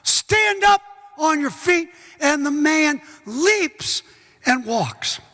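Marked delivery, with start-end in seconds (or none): 0.0-1.9 mock yell. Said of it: "He yells at the guy".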